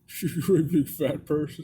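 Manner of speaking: put-on movie-killer impression; Buffalo Bill. Friend echoing the film killer's joke, put-on voice. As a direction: echo the killer's line in an altered voice. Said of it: "He even laughed with it".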